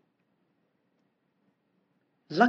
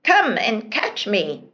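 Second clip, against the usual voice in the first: teasing shout; 3 dB louder than usual. Acted. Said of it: "shouted the prince".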